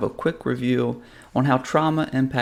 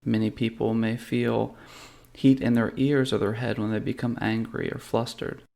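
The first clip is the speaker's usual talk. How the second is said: calm, measured meditation guide with long pauses; guided meditation. Real, not acted. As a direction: lead them gently through a body scan, unhurried. Leads a guided body-scan meditation.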